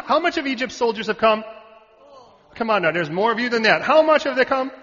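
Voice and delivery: loud, high prodding of the crowd; rousing call-out. Real, not acted. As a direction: press the congregation for an answer. Pressing congregation for a louder answer.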